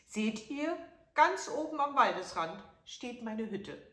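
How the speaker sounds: put-on high, loud old crone pointing; old woman. A narrator's reading. Old woman points the prince to her hut, high-voiced. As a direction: show him the way like a frail old woman. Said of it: "antwortete die Alte".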